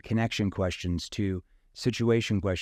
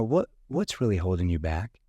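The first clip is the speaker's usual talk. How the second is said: a bit lower, leaning-in concerned question; 3 semitones lower than usual. Shown as a demonstration. Salesman leaning in to a hesitant prospect, concerned. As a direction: lean in and ask with empathy. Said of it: "that tone that shows empathy".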